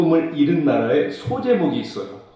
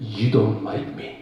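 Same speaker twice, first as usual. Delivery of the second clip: put-on small voice, quieter and lower; 6 semitones lower, 6 dB quieter than usual. A father retells what his son said to him, imitating a small voice. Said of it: "조그만 목소리로".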